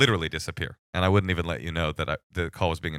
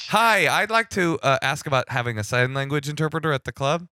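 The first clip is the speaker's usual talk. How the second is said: much higher, louder eager caller; playful caller voice; 6 semitones higher, 3 dB louder than usual. Pretend. Acting the call to the club, bright high caller voice. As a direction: pitch it up as the hopeful caller.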